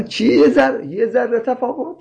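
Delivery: «یه ذره تفاوت» با تعجب تمسخرآمیز؛ lightly mocking an incredulous listener; پرسش تمسخرآمیز با لحن ناباوری; mock disbelief. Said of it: "فارسی زبان ها میخندن".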